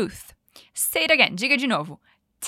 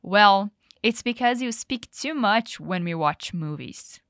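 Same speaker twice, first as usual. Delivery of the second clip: lame excuse; 3 semitones lower, slower than usual. Acted. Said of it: "bem das esfarrapadas".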